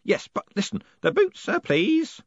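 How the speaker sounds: put-on high, hoarse whispered old man. A narrator's reading. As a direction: rasp it under your breath. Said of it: "Groat's hoarse whisper".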